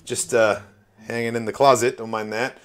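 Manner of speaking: mock-innocent, settling into offhand; nonchalant and casual. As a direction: brush it off as if nothing happened. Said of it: "I'm not acknowledging it".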